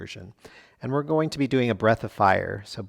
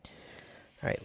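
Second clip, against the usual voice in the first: whisper; 14 dB quieter than usual. Real, not acted. Quiet cue during pose.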